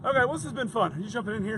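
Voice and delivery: breathless after riding the scooter; winded and puffing between words; out of breath. Real, not acted. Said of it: "you're out of breath".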